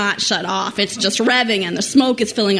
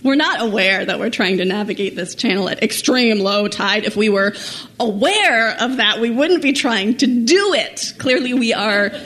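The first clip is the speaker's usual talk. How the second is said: sarcastic reply; 3 semitones higher than usual. Retold or imitated. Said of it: "And we say".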